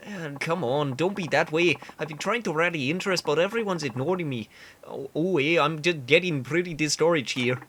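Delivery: pleading in a badly faked Canadian accent; discouraged candidate, clumsy Canadian voice; awful Canadian accent. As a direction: whine a little in bad Canadian. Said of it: "I know the accent is awful".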